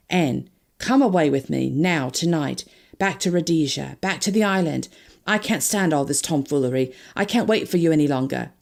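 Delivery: a hint of an eager lover pressing her; Harry urging. Harry begging Anne to run away tonight, urgent.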